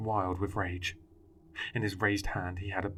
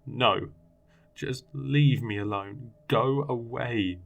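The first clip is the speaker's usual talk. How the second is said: desperate pleading; 3 semitones higher, 6 dB louder, slower than usual. A narrator's reading. Child begs voice to leave.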